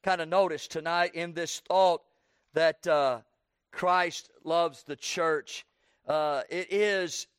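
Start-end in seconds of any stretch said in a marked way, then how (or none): 3.7-5.6 "Christ loves the church" said very slowly; slow emphasis. Shown as a demonstration. Preacher stresses the point to the congregation, very slow. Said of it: "I want you to kinda notice".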